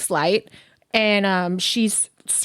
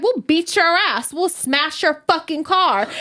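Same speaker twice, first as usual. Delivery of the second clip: put-on kid voice; 7 semitones higher than usual. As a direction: mimic a little girl cussing. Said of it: "And she's like".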